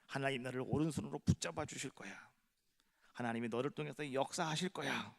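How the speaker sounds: usual speaking voice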